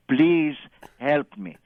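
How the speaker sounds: loud, stressed please, then dropping; imitated desperate appeal; retold pleading. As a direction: beg him, leaning hard on the first word. Retold plea to the breeder.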